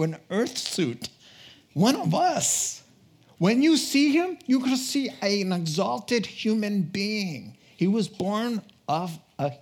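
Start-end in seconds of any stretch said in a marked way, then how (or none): 1.7-7.6 soaring exclamation. Real, not acted. Preacher exulting in his sermon.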